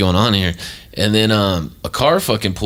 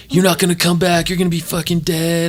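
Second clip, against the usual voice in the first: much higher, panicked mock wail; imitated crying scream; 10 semitones higher than usual. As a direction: play the frantic girlfriend screaming at him. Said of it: "crying and screaming again".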